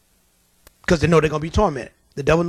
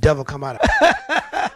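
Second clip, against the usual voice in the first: laughing command; 3 semitones lower than usual. Retold or imitated.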